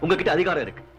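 forceful, indignant tirade; heated ranting. Acted. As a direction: argue back hotly, phrase by punchy phrase. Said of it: "கத்த வேண்டியதெல்லாம் கத்தி முடிச்சிட்டீங்களா?". (ஆவேசமாக வாதாடும் குரல்)

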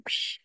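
short, soft scoffing hiss; dismissive psh. Retold or imitated. Brennan silently waving Anna away, dismissive. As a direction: brush her off with a quiet psh. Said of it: "just looking at her like".

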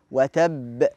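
"وتب" with a doubled ب held, then bounced; major qalqala. Shown as a demonstration. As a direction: press on the ب of "وتب" and release it strongly. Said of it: "الكبرى في الحرف المشدد".

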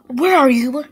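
loud call across the house. Acted. Mother calling through the house for her kids. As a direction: call out to find the hidden kids.

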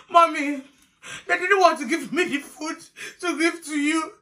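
high-pitched little explanation; meek slapped daughter. Retold or imitated. Esther explains to mom after the slap, high meek voice. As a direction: plead upward to mom, haltingly.

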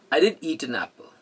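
emphatic "did" in slow, measured delivery; slow sentence with "did" lifted; stress on DID. Shown as a demonstration. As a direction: lean on "did", slowly. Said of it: "if he says, I did eat".

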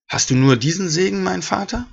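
a touch of tearful begging; near tears. Acted. Esau begging his father for a blessing, mildly tearful. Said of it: "Und Esau fing an, laut zu weinen".

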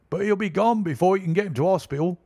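a doubter in the crowd; gloomy bystander. A narrator's reading.

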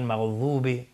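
مغضوبه with dad turned into a voiced th; wrong dad. Shown as a demonstration. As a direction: mistaken lisped th in مغضوبه. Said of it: "نه، اینجا اشتباه هستش".

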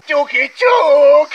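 slow teasing knock knock. Pretend. Knocking again at the bush, stretching it out very slowly. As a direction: stretch every syllable of Ťuky, ťuk, teasing.

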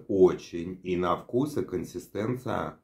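chewing while talking; speaking around a bite; mouth full. Real, not acted. Seen 0: Bites tomato around 15–17s; earlier he talks with a clear mouth.

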